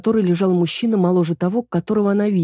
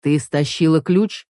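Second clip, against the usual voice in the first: stern; slower than usual. Acted. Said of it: "строго заметил мужчина".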